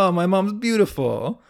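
a light mock Italian accent; barely-there Italian accent on a proud mamma's boy line. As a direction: toss it off in a faint Italian accent. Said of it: "That's my Italian accent".

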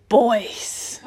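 breathy teasing whisper; ASMR whisper. Pretend. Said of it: "Do a bit of A S M R".

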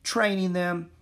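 high, lightly breathless reply. A narrator's reading. Annie answers the philosopher, slightly breathless. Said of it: "Annie said breathlessly".

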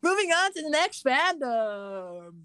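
loud, high, stretched-out announcement; announcer segue. Pretend. Host loudly moving the show on to the next fandom, announcer-style. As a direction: sweep into the next segment, drawn out. Sing-song announced change of topic.

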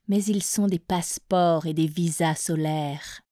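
measured poem reading, pauses after each verse; poetry recitation. Acted. Presenter reads the featured poet's verses to listeners, poetry recitation. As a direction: recite verse by verse, letting each line settle.

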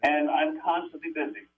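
muffled tinny phone mic. Real, not acted. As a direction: sounds like talking in a tin can. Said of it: "you sound like you're in a tin can".

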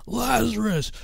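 imitating the song's climactic cry of "Lazarus"; soaring crescendo call. Friend mimicking the song's crescendo, calling Lazarus high. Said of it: "it builds up to the crescendo of the song".

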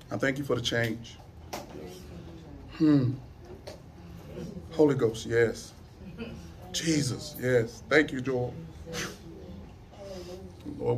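subdued praying voice with long pauses; hushed, reverent thanks to God; heartfelt prayer. Real, not acted. Leads the congregation in prayer.

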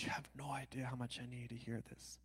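soft whispered, moved; retold tearful whisper. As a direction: whisper it like a man moved to tears. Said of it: "He starts weeping there".

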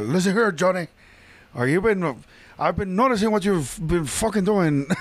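a hint of a mobster recruiter, slowing into the swearing; Al Pacino as Scarface. Scarface phoning to recruit Johnny, light gangster impression. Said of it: "submit your best Al Pacino impression".

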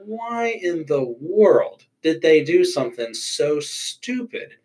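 slow, incredulous, stupid squeaked up high; mock exasperation. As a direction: act baffled by a dumb choice. Mock outrage at a bad choice.

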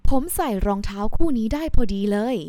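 delighted that the shoes fit; pleased example. Shown as a demonstration. Customer pleased the shoes fit, cheerful. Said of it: "For example".

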